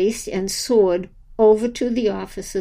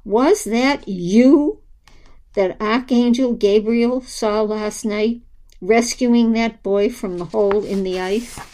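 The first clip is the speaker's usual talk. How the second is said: booming; 4 dB louder than usual. Acted. Archangel booming question continues.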